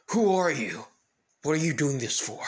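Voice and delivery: urgent police officer's shout; alarmed demand. Acted. Officer demands answers from villain.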